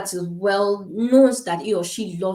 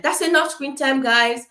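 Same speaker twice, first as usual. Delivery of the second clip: raised, higher call to wind things up; calling the kids off screens; 5 semitones higher, 4 dB louder than usual. Retold or imitated. Mother tells her kids screen time is over, raised call. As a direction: mom calling out to the kids, firm but light. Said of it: "I'm like".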